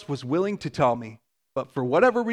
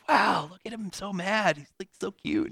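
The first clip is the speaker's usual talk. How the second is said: amused aside; 3 semitones higher, 5 dB quieter than usual. Retold or imitated. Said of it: "I'm like".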